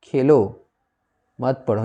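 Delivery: falling खेलो, pause, then मत पढ़ो; खेलो as its own command, मत पढ़ो following apart; pause after खेलो. Shown as a demonstration. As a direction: break after खेलो, keep मत पढ़ो together. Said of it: "यहाँ पर क्या बोला?".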